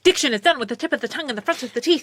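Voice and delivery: fast crisp diction drill; theater diction teacher. Retold or imitated. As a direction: recite like a drama teacher. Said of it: "it's that theater thing".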